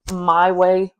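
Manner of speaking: words jolted by a mic knock; mic bump mid-sentence. Real, not acted. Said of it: "sorry, I keep hitting my mic".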